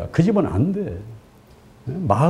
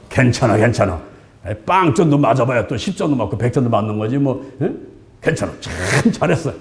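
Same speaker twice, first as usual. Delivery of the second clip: low-pitched, mild reassurance; acted praise; 6 semitones lower than usual. Parent to a child who got zero, reassuring praise. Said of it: "이 칭찬을 하잖아요".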